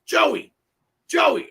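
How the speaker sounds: retold calling across the room. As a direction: shout a name to someone far off. Ivan calling out to Joey.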